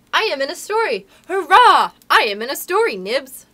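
high, loud cheering; jubilant. A narrator's reading. Toodles telling Nibs he is in the story, jubilant. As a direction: shout it for sheer joy.

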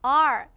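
"R" loud, with tongue curled back; English R. Shown as a demonstration. Teacher leading a repeat, loud "R" with tongue curled inward. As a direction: lean hard into a curled-tongue "R". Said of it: "같이 해볼까요?".

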